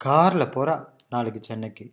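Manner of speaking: கார்ல strong at the front, then a falling tail; stress on கார்ல. Shown as a demonstration. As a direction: make கார்ல feature strongly, play down the rest. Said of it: "making that car feature very strongly".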